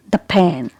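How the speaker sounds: "the pen" with "the" as short "thuh"; weak the before consonant. Shown as a demonstration. Teacher gives another consonant example, "thuh pen". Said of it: "you'll pronounce it as the".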